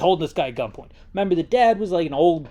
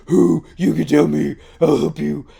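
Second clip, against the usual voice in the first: louder, pushy offer of help; loud mock coaxing; 7 dB louder than usual. Raul calling out to his shooter, loud and mock-friendly. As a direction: bellow the offer to help as a hammed-up pal.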